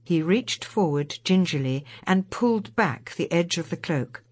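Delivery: ordinary delivery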